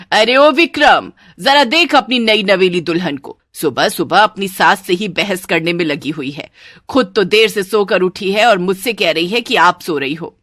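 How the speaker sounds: loud opening call, settling into scolding; shouted complaint. Acted. Mother-in-law yelling to Vikram about his bride, shouting. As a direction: call out sharply, then rail on. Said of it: "जोर जोर से चिल्लाने लगती है".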